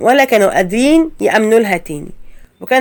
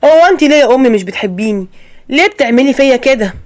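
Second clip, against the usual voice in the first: hurt confrontation; 2 semitones higher, 3 dB louder than usual. Acted. Son confronts mother, shocked.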